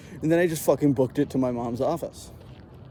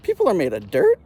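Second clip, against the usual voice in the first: put-on amazed kid; 7 semitones higher than usual. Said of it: "my friend was like".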